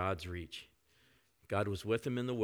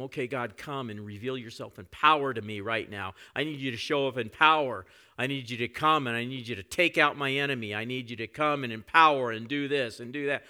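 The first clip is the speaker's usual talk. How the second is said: louder, insistent pleading at God; demanding prayer; 2 semitones higher, 7 dB louder than usual. Retold or imitated. Believer demanding God act in power, loud and insistent. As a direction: demand that God show up now. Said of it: "We tell him".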